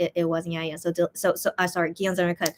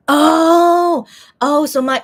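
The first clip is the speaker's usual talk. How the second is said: surprised; 7 semitones higher, 10 dB louder, much slower than usual. Real, not acted. Realizing she was misunderstood.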